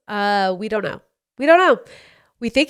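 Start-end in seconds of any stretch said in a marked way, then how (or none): 1.4-1.8 pitched way up and louder, fed-up cry; exasperated outburst. Retold or imitated. Parent answering kids nagging for presents, exasperated outburst. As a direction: throw up your hands and blurt it out.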